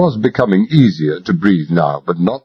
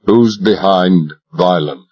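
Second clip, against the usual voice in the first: cold demand; 3 semitones lower, slower than usual. Acted. Cold interrogation.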